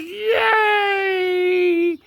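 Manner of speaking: very high drawn-out kitty cheer; cat voice. Pretend. Second cat cheering, very high cat voice. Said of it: "She says".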